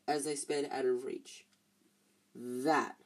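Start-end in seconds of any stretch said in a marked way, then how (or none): 2.3-3.0 lower, panting breathlessly; out of breath. A narrator's reading. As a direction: gasp it out winded. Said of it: "panted Ron".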